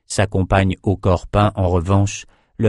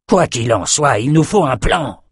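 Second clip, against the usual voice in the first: impatient; 5 semitones higher than usual. Acted. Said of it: "s'impatienta Outros".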